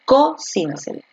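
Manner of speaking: Cocínaselo with a high, stressed CO, the rest falling away; stress on first syllable. Shown as a demonstration. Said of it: "¿Dónde está la fuerza de voz".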